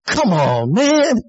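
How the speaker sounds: retold high shout of disbelief; incredulous outburst. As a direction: act out a stunned friend shouting at him. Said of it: "I just went".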